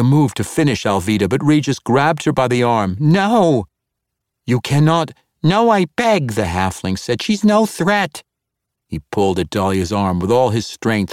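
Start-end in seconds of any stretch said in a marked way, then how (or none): 3.0-6.3 high, pleading halfling cry; desperate pleading. Acted. Halfling begs Dahlia to stop. 7.2-8.2 high, slow, earnest plea; slow down and plead her case; pleading halfling. Acted. Regis pleads for Alvida.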